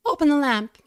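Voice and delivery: high, urgent woman's voice. A narrator's reading. Woman urging the men to light the lamp. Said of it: "like a dove's call, urgency".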